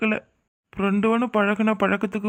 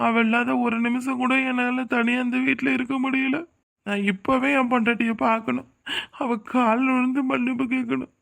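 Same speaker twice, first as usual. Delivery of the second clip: tearful longing; 3 semitones higher than usual. Acted. Husband pining for wife, begging forgiveness.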